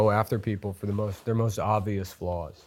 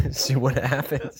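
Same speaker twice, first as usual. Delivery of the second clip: talking through laughter, slow and higher; real laughing; 4 semitones higher, slower than usual. Real, not acted. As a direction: get the words out between laughs. Laughing while finishing his joke.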